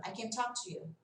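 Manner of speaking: "can't" said as a quick, weak "kn", softly, stress on "talk"; short affirmative "can". Shown as a demonstration. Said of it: "Se for afirmando". ("can't" curto e fraco, como afirmativa)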